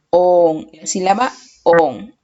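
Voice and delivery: "on" drawn out with extra weight; stressed syllable. Shown as a demonstration. Teacher naming the strongest syllable, stressing "on". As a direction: lean firmly on each "on". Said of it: "la sílaba que tiene la mayor fuerza de voz".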